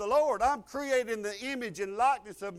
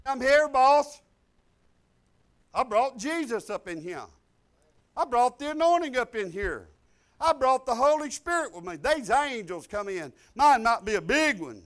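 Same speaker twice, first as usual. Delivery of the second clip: bold announcement; 5 dB louder than usual. Pretend. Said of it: "you could say".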